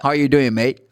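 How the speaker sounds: "How are you doing" with "are" almost swallowed; dropped "are". Retold or imitated. Teacher imitating casual speech, "How are you doing, mate" with "are" dropped. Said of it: "Ele tira o".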